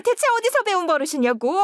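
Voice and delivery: 더 격하게 다그치며; rising scold. Acted. Mother-in-law scolds daughter-in-law.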